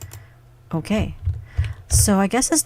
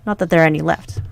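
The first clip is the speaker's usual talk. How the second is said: loud, chatty innkeeper greeting a youngster; hearty tavern owner; 6 dB louder, faster than usual. Acted. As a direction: boom it out like a proud tavern keeper. Voicing the tavern owner's dialogue.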